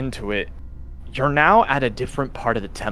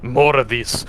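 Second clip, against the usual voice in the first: exasperated; 4 semitones higher, 3 dB louder than usual. Acted. Strahd irritated by the questions.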